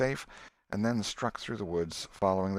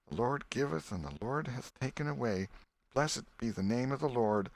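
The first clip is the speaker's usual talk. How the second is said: tearful prayer; 4 semitones higher than usual. Acted. Quotes scripture while grieving.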